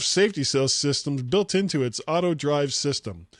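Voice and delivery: measured, emphatic podcast news read; host reading a tech story aloud. Real, not acted. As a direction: read out the report in deliberate phrases.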